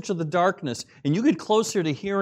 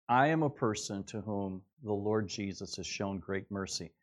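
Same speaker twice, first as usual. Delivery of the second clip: quiet sincere testimony; 6 semitones lower, 7 dB quieter than usual. Shown as a demonstration. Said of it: "I've used that phrase".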